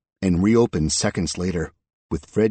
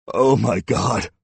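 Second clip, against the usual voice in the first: slow, higher, anguished moan; 4 semitones higher, 5 dB louder, slower than usual. A narrator's reading. Sobbing man despairing at being caught, moaning. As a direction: moan it into your hands. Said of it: "he moaned between his fingers".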